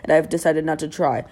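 reading aloud in mock British; British accent. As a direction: put on a British accent to read a post. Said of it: "read everything on Instagram in a British accent".

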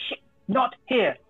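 high, slow panicked yell. Acted. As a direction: shout it out in alarm. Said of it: "I'm gonna yell".

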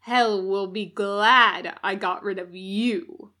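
loud, cold cruelty; cruel threat. Acted. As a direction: gloat as you squeeze. Demon threatens dying captive.

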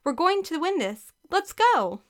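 high-pitched rallying call. A narrator's reading. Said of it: "Carrie called".

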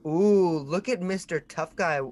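high, sing-song teasing jeers; mocking heckle. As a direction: taunt him like a crowd heckler. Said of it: "you hear just like".

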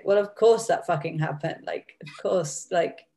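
dry sarcastic quote, lightly done; a touch of mock exasperation. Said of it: "it's almost like a sarcastic".

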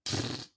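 quiet puff of air; dismissive pfft. Retold or imitated. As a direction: imitate their brush-off. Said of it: "they were like".

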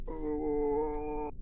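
zombie groan. Retold or imitated. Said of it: "like Minecraft zombie sound".

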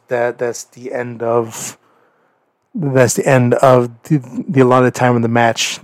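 drawn-out ring announcer; slow announcer voice. Retold or imitated. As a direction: announce it slowly to the arena. Announcer calling the time limit.

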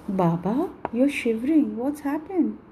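Baba, you're shivering lifted in worry; alarmed concern. Acted. Young wife to trembling Baba, alarmed. Girl startled by old man shivering.

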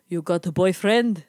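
lightly voiced creepy old Lebanese driver; creepy old man. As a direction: mimic a prying old driver, slowly. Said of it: "this creepy old man".

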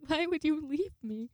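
high, hurt pleading; hammed-up drunken lament; mock heartbroken wail. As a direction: plead as if melodramatically abandoned. Retold drunk wail at Tallulah.

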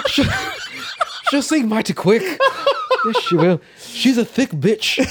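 high, loud hammed-up British accent; mock British accent. Seaman agreeing the ship will sink, mock British accent. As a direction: play a British seaman for laughs, loudly. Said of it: "our accents sound pretty good".

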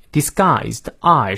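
"disguised" with the long I glide fully made; full diphthong. Shown as a demonstration. Teacher drilling vowels, full slow I in "disguised". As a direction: stretch the I in "disguised" through both vowels, slowly. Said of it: "双元音到位".

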